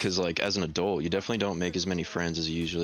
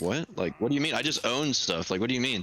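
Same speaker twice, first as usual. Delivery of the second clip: higher-pitched, mildly incredulous retort; retold bafflement, pitched up; baffled reply; 5 semitones higher than usual. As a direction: act out puzzled modesty. Baffled reply to coworker's compliment.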